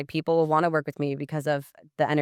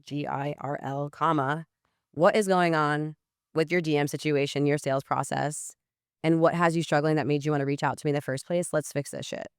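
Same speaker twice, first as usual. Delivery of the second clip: all-caps energy. Shown as a demonstration. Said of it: "Versus if I'm like, "Kayla, all capital letters".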